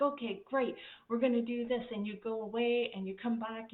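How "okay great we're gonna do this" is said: higher, louder cheerful agreement; pleased boss. Retold or imitated. Boss accepting the team's yes, upbeat. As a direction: sound happily satisfied, a bit hammed-up. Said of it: "And you're like".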